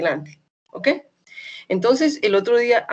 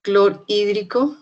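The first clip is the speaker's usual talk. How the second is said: Clorhídrico spoken slowly, syllable by syllable; 3 dB louder, slower than usual. Shown as a demonstration. Teacher slowly sounding out Clorhídrico for her students. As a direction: spell out Clorhídrico slowly for the class. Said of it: "Ácido clorhídrico".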